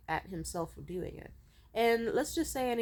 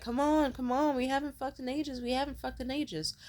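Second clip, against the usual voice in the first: higher-pitched mock nagging; retold wheedling, pitched up; pressuring pleading; 6 semitones higher than usual. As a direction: imitate a pushy boyfriend pestering her. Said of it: "was trying to pressure her".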